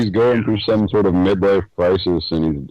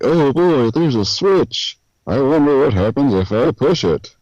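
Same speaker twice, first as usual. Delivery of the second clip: a light sarcastic read of the line; 6 semitones higher than usual. Retold or imitated. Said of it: "sounding, like, sarcastic".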